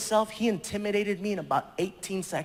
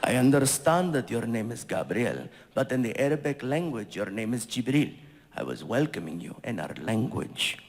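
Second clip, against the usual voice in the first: much lower, calm explaining voice; prince's voice; 9 semitones lower than usual. Retold or imitated. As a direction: patiently set the guest straight. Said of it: "And he's like".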